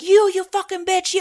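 put-on very high, shrill, abusive yelling. Retelling a driver who almost ran the speaker over: imitating a driver yelling. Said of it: "he started yelling at me like".

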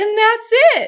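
very high, very loud piping voice. Act out how he closed the book and finished, imitating a super high-pitched voice. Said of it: "in this like super high pitched voice".

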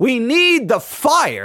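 very passionate, fired-up, swooping preaching delivery. Before playing a preaching clip, the speaker says its title, passionate. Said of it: "I'm saying it in a very passionate way".

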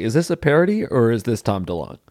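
ordinary talk, nothing marked

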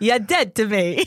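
slow, drawn-out TV mob-boss delivery. Asked by the other speaker to give people the Sopranos voice: Sopranos voice. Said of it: "Give them the Sopranos voice".

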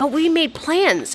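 incredulous, disbelieving, can't-believe-it tone. Retelling what he'd say when asked to change plans, imitating his disbelief. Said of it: "in this tone of disbelief".

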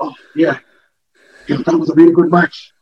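breathless panting speech. Showing how a promo sounds right after a long match, out of breath. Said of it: "where you you're out of breath".

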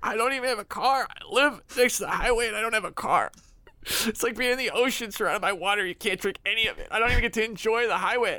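talking through tears. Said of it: "Are you crying?".

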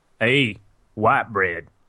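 put-on old-West film cowboy accent. Opening the podcast role-playing like a Western movie: put-on Western movie accent. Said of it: "I can't do that accent very long".

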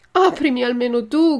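loud, tearful, pleading crying shout. Locked out of a house, calling up to someone at the window: shouting, crying and pleading. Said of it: "gridò Pinocchio piangendo e raccomandandosi".

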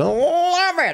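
high-pitched voice in 1920s jazz style. Speaker showing how they say it when they really love something, in a 20s jazz voice. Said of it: "I got to say it in that 20s jazz voice".

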